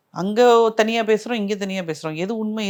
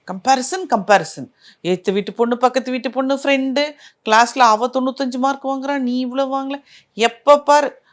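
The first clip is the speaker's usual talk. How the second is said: high, raised-voice complaint; pitched-up mock outburst, building to a louder protest; imitating exasperated girl; 5 semitones higher, 4 dB louder than usual. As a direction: act out a girl venting to an aunty about being compared. Retelling a girl's outburst about comparisons.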